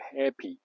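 "happy" with an EE ending; American happy. Shown as a demonstration. Teacher quoting Americans, "happy" ending in EE. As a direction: say "happy" with the final Y as EE. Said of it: "一般他们都会说是一个happy".

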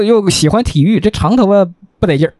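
usual speaking voice

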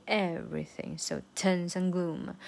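"Everything" punched on its first syllable; stress on Everything. Shown as a demonstration. Teacher showing the accent, stress on "Everything". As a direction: lead hard with "Everything". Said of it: "这个everything要重读".

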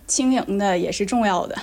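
casual northeastern Chinese accent. Shown as a demonstration. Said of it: "我也可以用东北话把这句话说一下".

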